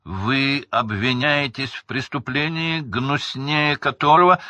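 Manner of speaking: loud and clear sentencing. A narrator's reading. Crouch sentencing prisoners, growing loud. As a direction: voice swelling with condemnation. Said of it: "громко и ясно произнёс он".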